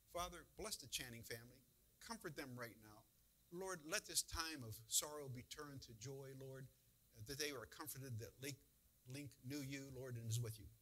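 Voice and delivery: gentle spoken prayer, falling in pitch; earnest prayer. Shown as a demonstration. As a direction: pray simply for a grieving family. Models a short prayer for family.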